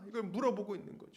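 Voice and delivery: normal talking voice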